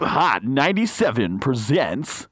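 stuttering DJ hype, climbing to a high shriek; loud remix-style stutter announcer; mock radio promo. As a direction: hype it like a radio jingle, words repeating.

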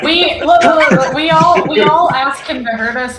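loud, high, through laughter; laughing while talking. Real, not acted. Laughing group banter.

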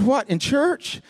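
mock surprise, pitch leaping up; incredulous question. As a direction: ask it in high-pitched disbelief. Retells his surprised question.

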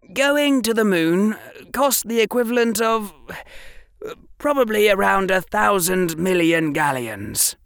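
a hint of a keen boy showing off; Harry explaining muggle pictures to Draco; young Harry. Harry voiced in reading.

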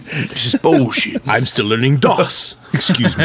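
put-on slow, drawn-out British accent. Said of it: "with a British accent".

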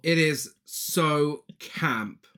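sassy drag queen. Real, not acted. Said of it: "high levels of camp".

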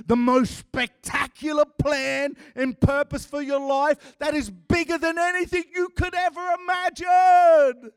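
hyped-up pitch, mocking a prosperity preacher; mock gospel salesman. Preacher mocks a feel-good gospel pitch, hammed-up salesman hype. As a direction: sell Jesus like a product, all hype. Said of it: "Kool-Aid Christianity that is sold".

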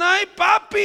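a hint of a swooning wife; doting wife impression. Preacher mimicking a wife to her husband, mock adoring. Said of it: "hay mujeres que dicen".

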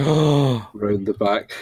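drawn out, slow, loud; slow it down for drama; slow dramatic reveal. Retold or imitated.

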